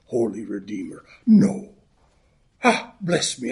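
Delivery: a light Irish brogue held through the greeting and the joke; Irish accent. Acted. Minister greeting the congregation on Saint Patrick's Day, in a light Irish accent. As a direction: lilt it like an Irish great-granddad. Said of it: "now I'll drop the accent".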